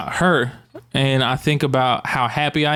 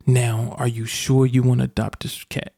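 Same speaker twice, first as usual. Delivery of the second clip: a hint of grave questioning; imitated solemn vet. Vet double-checks with the adopters, lightly grave voice. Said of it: "He's like that".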